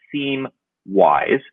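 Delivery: seem stressed, rising to a questioning wise. Shown as a demonstration. Host reading the title to the guest, stress on seem. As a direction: lean on the word seem and lift the end. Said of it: "So it's emphasis on seem".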